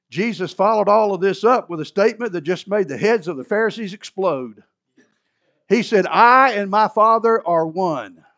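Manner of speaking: loud proclamation building to the quote; forceful preaching. Real, not acted.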